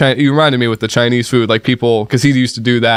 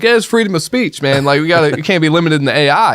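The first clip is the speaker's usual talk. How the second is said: mock Elon Musk; 5 semitones higher than usual. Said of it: "and Elon Musk is like".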